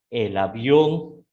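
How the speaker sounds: slow "avión", weight on the final ón; stress demonstration. Shown as a demonstration. Teacher showing students the acute accent, stressing ón in "avión". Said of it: "para cargar el tono de la letra".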